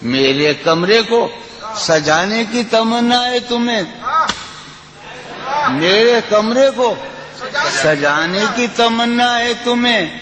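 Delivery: lilting, sung-through recitation of a ghazal; poetry recitation. Acted. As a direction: recite it like at a mushaira.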